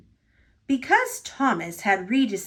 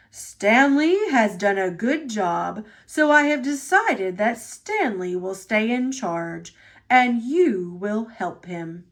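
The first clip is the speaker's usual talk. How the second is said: a lightly lowered, stately boss voice; Sir Topham Hatt. Acted. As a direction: speak like the kindly railway chief.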